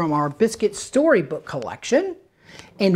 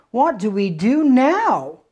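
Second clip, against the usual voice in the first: put-on girl voice; 5 semitones higher, 4 dB louder, slower than usual. Girl asks puppy.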